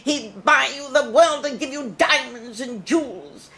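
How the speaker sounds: high, tearful, swooning English lady; Colman's niece. Retold or imitated. Playing Colman's niece, swooning and teary. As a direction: swoon over her uncle near tears. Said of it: "I'm doing his niece now".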